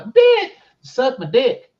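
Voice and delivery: loud, slow, drawn-out demand broken by a laugh; laughing mock demand. Husband voicing what he'd really tell his wife, loud and slow through a laugh. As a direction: belt it out slow and cracking up.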